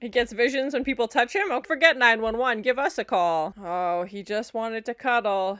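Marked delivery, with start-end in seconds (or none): 3.6-5.6 mock sympathy. Joking contrast, cuddle against murder.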